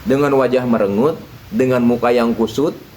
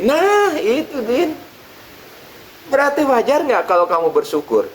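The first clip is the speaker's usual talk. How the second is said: triumphant kiai; 12 semitones higher than usual. Acted.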